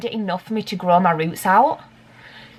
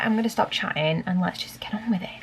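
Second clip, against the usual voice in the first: whisper; 6 dB quieter than usual. Real, not acted. Wrapping up the chat.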